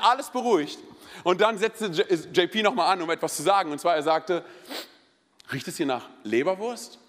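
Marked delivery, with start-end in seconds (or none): 5.5-7.0 sly, lower-voiced teasing question; measured mock-innocent dig; needling taunt. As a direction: imitate a friend provoking the sulker. Imitates J P needling sulky player.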